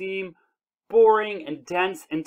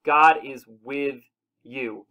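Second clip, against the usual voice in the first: very slow, each word weighted; preacher's slow, weighty declaration; slow emphatic; 4 semitones lower, much slower than usual. Real, not acted. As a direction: land "God is with you" deliberately. Preacher's climactic answer.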